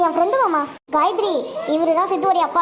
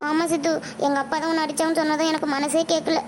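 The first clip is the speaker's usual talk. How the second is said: soft, lowered, heartfelt voice; tender confiding; 3 semitones lower, 4 dB quieter than usual. Acted. Girl tells injured boy she had to see him, tender. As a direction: confide worry and relief gently.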